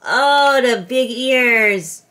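big ears admired, slow and loud; delighted gasp. Real, not acted. Owner showing viewers her dog's ears, delighted and slow. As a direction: savor the reveal with wonder.

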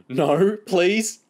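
high, loud tickled protest; squealed, helpless plea; giggling plea. A narrator's reading. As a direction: beg loudly, high-pitched, as if being tickled. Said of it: "James giggled".

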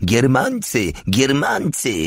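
high-pitched cry, volume held back; screamed alarm. A narrator's reading. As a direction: call the warning out high, without full force. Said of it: "wrzeszcząc".

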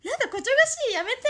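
high squealing giggle, begging to stop; giggly tickled protest. Acted. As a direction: squeal it out while being tickled. Acting being tickled. (くすぐられて笑いながら甲高く「こちょがしい」)

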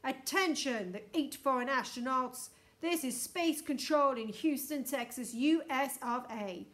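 loud, commanding official announcement; booming loudspeaker voice. A narrator's reading. Space Control challenges the trespassing astronauts, booming and stern. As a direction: boom out orders like mission control. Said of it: "boomed the voice".

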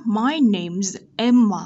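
slow, careful "My name's Emma"; teacher models "My name's Emma" with a z in "name's"; measured demo of "My name's Emma" for learners; model reading. Shown as a demonstration. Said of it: "các bạn nhìn theo bút nhé".

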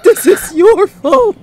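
very high, loud cracking yell; anguished, furious cry. Acted. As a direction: let the shout break on the blame. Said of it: "His voice cracked".

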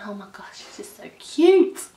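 starstruck squeal; gushing. Real, not acted. Gushing about Gavin.

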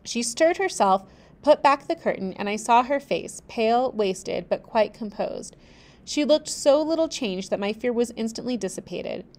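steady storybook reading; measured narrator voice; story narration. A narrator's reading. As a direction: read the tale aloud, even and clear. Reads the novel aloud.

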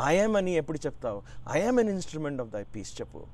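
quick, firm coaching command. Retold or imitated. Swami firmly corrects his disciple's prayer. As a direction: drive it home like a coach pushing a player. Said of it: "there was a firmness in his voice, like a coach".

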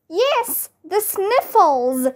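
high pitched, read-aloud mock scream. A narrator's reading. Mister Mackey confirming the sniffles, mock scream. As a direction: squeal it up high without real volume. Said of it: "screamed Mister Mackey".

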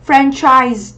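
teacher modelling "Franchise", clear ch in the middle; CH sound in Franchise. Shown as a demonstration. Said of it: "âm này là âm ch".

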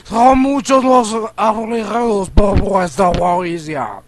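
lightly hammed-up villain read; reading the boss line in a mock grand voice; silly boss voice. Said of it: "Estoy hablando como un imbécil".

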